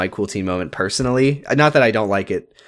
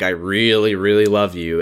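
low, reluctant love line; dutiful, pitched-down declaration; grudging obligation; 4 semitones lower than usual. Retold or imitated. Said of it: "as if to say, I, I, I must".

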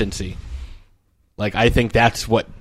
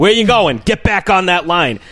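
coach yelling; 4 semitones higher than usual. Retold or imitated. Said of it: "He's like".

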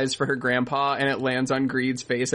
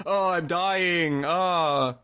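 megaphone voice; 3 semitones higher, much slower than usual. Retold or imitated. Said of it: "He pulls out a megaphone".

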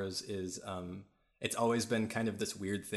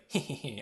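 little mock gloating laugh, pitched up; imitated winner's giggle; 4 semitones higher than usual. Game officer who just won a battle, mock gleeful. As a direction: giggle like a pleased victor. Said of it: "won out will be like".

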